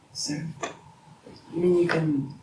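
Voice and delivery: hushed, tentative question; whispering. Acted. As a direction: ask it softly, under the breath. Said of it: "stop whispering".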